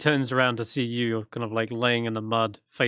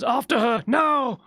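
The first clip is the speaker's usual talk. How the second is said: put-on high, louder old wizard's order; commanding shout; 12 semitones higher, 4 dB louder, slower than usual. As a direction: bark the order to chase. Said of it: "And he says".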